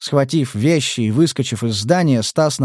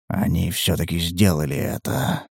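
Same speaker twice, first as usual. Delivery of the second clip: whispered; 8 semitones lower, 5 dB quieter than usual. A narrator's reading. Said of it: "прошептал".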